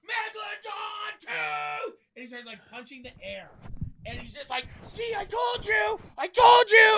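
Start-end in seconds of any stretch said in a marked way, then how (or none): 0.0-1.9 high, slow, drawn-out thrilled yell; excited kid scream. Retold or imitated. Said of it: "He starts screaming like". 4.8-6.9 high, slow gloating shout; triumphant kid yell. Retold or imitated. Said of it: "he starts screaming at me".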